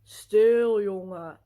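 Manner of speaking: sharp loud shush, then a curt hush-up; imitated stern shushing. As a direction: hush a child like a disapproving stranger. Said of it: "Literally in that tone".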